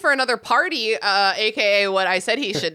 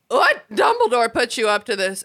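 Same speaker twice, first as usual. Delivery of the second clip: shocked. Retold or imitated. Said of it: "And Slughorn is like".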